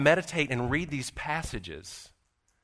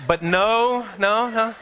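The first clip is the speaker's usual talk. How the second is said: retold amused denial; 6 semitones higher, slower than usual. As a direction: wave it off in a raised comic voice.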